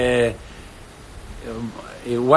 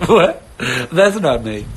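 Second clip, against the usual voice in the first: mock surprise; shocked; slower than usual. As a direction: recoil at your own recording. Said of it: "you're like".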